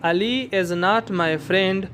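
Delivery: Ali is not my friend read very slowly, stressing not; slow example. Shown as a demonstration. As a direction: spell out the sentence slowly. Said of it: "पहला जुमला है".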